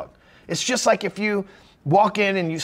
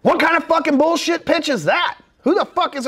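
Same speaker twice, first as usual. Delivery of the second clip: high, loud disbelieving outburst; shocked, scornful cry; incredulous outrage; 9 semitones higher, 5 dB louder than usual. Retold or imitated. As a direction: blurt it out, offended by the pitch. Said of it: "I thought".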